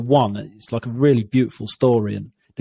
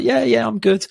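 imitating little son; 11 semitones higher than usual. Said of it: "And he's like".

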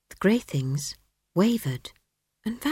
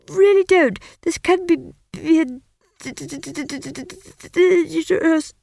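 high, strained, halting stammer; nervous wizard begging; stuttering young wizard pleading; 10 semitones higher, 4 dB louder than usual. Acted. Simon pleads, stammering badly.

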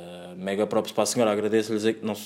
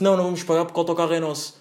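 higher, quick wise-guy retort; imitated smart aleck; 5 semitones higher, faster than usual. Friend refusing to pay the driver, mock smart-aleck retort. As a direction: play the cheeky friend, fast and raised in pitch. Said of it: "armado em esperto".

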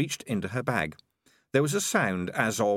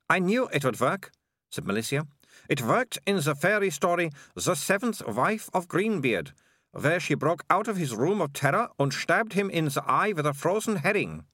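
put-on higher, bright-eyed girl voice, confident; lightly voiced eager girl; 7 semitones higher than usual. A narrator's reading. Malicia boasting to Morris, higher girl voice. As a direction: play the well-prepared young heroine, pitched up.

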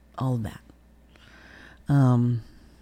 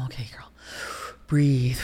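calming self-talk. Retold or imitated. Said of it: "And I just breathed".

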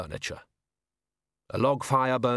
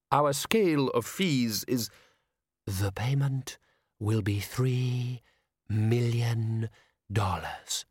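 monotone ghost; much slower than usual. A narrator's reading. The spectre speaking.

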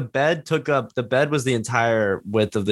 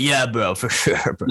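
lowered bro voice. Retold or imitated. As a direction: drop into a lazy creaky bro voice. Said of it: "lowering your voice".

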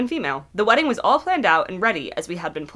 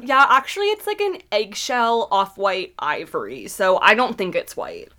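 sarcastic. Pretend. Mocking the excuse.

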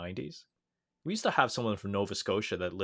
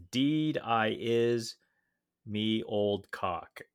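put-on Newfoundland accent; much slower than usual. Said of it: "in a thick Newfoundlander accent".

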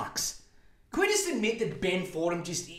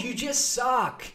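higher, slow shout; shouted insult; 6 semitones higher, slower than usual. Acted. Shouting at Ben Fordham that he just sucks, higher and slow. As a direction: shout it right at him.

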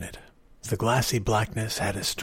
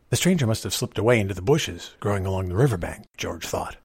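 ordinary delivery, nothing marked

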